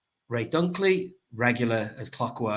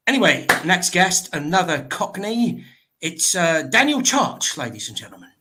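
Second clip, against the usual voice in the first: louder, higher showman announcement; announcer intro; 4 semitones higher, 3 dB louder than usual. Acted. Host announcing the next guest to viewers, showman style. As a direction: sell the next guest to the crowd.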